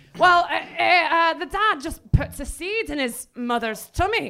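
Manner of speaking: bad, mangled, put-on Glaswegian accent, high pitch. Retelling a father's answer at a supermarket checkout: bad imitation of a Glaswegian accent. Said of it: "I'm really murdering his accent here".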